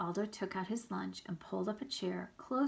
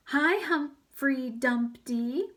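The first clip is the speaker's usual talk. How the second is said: loud greeting; 6 semitones higher, 8 dB louder, much slower than usual. Acted. A J greets Humphrey loudly.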